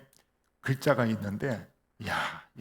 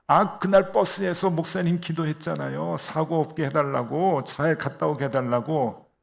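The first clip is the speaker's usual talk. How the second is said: mock teasing; 3 semitones higher, 5 dB louder than usual. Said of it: "막 놀리는 거예요".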